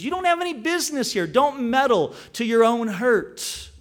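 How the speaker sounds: lightly voiced warning king; a hint of a rebuke; stern warning. King of Egypt warns Josiah.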